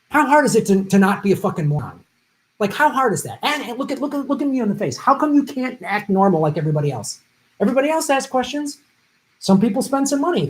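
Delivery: angry rant. Real, not acted. Ranting at a rude chat user.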